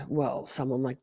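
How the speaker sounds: whispered dig at Charlie. Real, not acted. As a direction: lean in and breathe it.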